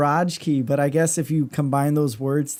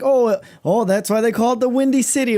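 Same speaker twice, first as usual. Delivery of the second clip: mock know-it-all; 7 semitones higher, 3 dB louder than usual. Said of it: "when someone says".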